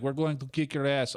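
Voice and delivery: put-on botched Jamaican accent sliding into French; accidental French accent. Comic voicing two mall thugs, botched French-sounding accent. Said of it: "I did a French accent".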